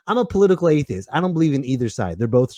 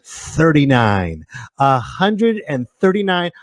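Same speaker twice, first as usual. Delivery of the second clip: pirate; slower than usual. Acted. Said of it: "like I was a pirate".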